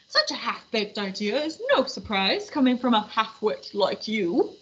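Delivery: a lightly voiced haughty big puppet; mild snooty puppet put-down. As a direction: sneer as the large puppet.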